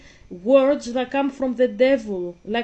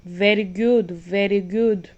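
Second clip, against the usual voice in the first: louder, knowing approval; doubt-planting approval; 2 semitones lower, 3 dB louder than usual. Acted. Havisham planting doubt in Pip, loud and knowing. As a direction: approve slyly to sow doubt. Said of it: "She's planting doubt already".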